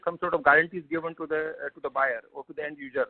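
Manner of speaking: muffled, as if through a hand; words dulled and covered. Real, not acted. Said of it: "your line is a little, muffled".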